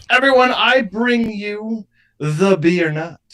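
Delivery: grand slow announcement; megalomaniac rant. Acted. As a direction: proclaim it like a showman. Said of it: "gonna wrap this up and make everybody laugh".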